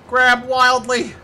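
loud, high, drawn-out shout; stretched-out holler; wild battle cry. Pretend. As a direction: yell it slowly like a battle cry. Escalated repeat of the line.

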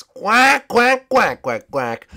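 squawking cartoon penguin; Gunter. Penguin protesting to the Ice King, quacking. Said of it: "Gunter, whatever your name is".

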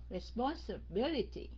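"Responsibility" split midway for easy reading; broken in half. Shown as a demonstration. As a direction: say "Responsibility" as two chunks, respons and bility. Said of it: "cắt nó ra vậy nó dễ đọc hơn". ("Responsibility" cắt làm hai cho dễ đọc)

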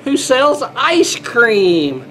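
lilting picture-book read-aloud; storybook voice for little kids; reading to children. Acted.

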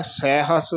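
ਸਹਿਸ with an ai vowel on the opening s; vowel on first syllable. Shown as a demonstration. Teacher showing where the vowel marks go, careful pronunciation. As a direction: say ਸਹਿਸ as "SAI-has". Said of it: "ਜੇ ਸੱਸੇ ਦੁਲਾਵਾਂ ਲਾਈਏ ਤਾਂ ਬਣਦਾ ਹੈ".

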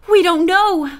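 high, loud anxious answer; gasped. A narrator's reading. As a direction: blurt it out in alarm. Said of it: "Bess gasped".

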